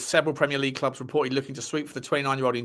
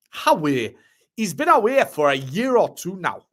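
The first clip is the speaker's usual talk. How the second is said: put-on Geordie accent. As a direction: read the pundit's quote in a Geordie accent. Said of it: "Geordie accent for Chris Waddle".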